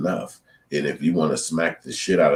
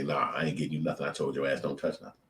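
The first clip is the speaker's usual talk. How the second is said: mock evil mom; 6 dB quieter than usual. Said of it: "She not gonna be evil and say".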